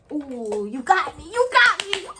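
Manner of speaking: singsong admission of being caught; playful mock defeat. Caught lying by her older man, playful rising squeal.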